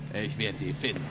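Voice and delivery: quiet threat. Acted. Eddie vows to Drake he will find her, quiet menace. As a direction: promise it softly, like a threat.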